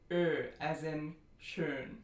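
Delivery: ö long and tight, as in schön; tense rounded ö. Shown as a demonstration. Teacher stressing tension for this vowel, long tense ö. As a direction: hold ö slowly with tensed, rounded lips. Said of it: "lots of tension here for this vowel".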